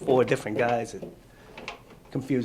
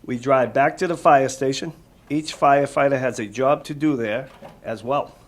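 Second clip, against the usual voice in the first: clear, lively storybook read-aloud, louder; reading to children; 5 dB louder than usual. Acted. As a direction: read it out to the kids with energy.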